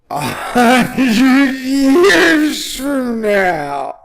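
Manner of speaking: high, slow, breaking into laughter; laughing so hard the words break up high; cracking up. Real, not acted. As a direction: lose it on "a hundred years from now". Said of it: "I can't even say it with a straight face".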